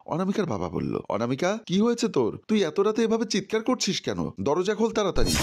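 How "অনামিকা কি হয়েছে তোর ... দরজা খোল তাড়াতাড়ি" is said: urgent call through the door; worried calling out. A narrator's reading. (দরজার বাইরে থেকে বাবার উদ্বিগ্ন ডাক)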